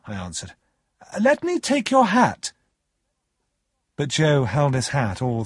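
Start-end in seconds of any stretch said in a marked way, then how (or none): 1.2-2.5 put-on high-pitched, fussing young host; eager host. A narrator's reading. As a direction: offer help eagerly, voice right up high. Pip eagerly plays host to Joe.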